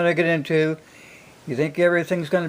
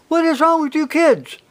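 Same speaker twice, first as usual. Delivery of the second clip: exasperated dad; 11 semitones higher than usual. Retold or imitated. Dad confronts crying kids.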